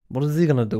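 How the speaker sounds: a light New York twang on the question; playful New York accent; mock New York accent. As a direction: toss it off like a New York cabbie. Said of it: "Why am I talking like that?".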